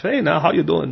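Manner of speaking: hint of a Pennsylvania Dutch accent. Farmer greets a stranger, light Pennsylvania Dutch accent. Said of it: "that's how they talk".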